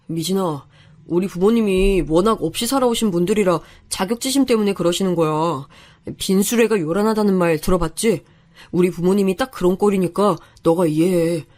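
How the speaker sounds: lightly voiced young man, coaxing; smooth it over and ask for understanding; conciliatory fiancé. Fiancé making up with his bride-to-be, conciliatory.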